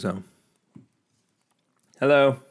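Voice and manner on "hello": loud high hello; called greeting. Real, not acted. Greeting Larissa as she comes home, called out. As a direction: call out a greeting across the house.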